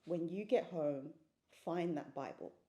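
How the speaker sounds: low, quiet, simple instruction; lightly voiced inner command. God's thought to her on the sofa, lightly voiced low command. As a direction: give a hushed, measured command. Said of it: "it simply said".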